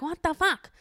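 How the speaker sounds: high, exasperated "What the fuck?"; mock outrage. Alone in bed reacting to feed, exasperated high outburst. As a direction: toss out the outraged cry she gives at her phone. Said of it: "being like".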